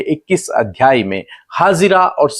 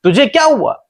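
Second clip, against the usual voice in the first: high, raised questioning voice; angel calling to Hagar; 10 semitones higher, 3 dB louder than usual. Retold or imitated. Angel asks weeping Hagar what happened, high raised questioning. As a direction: call out each question high, then let it fall. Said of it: "स्वर्गदूत उससे कहते हैं कि".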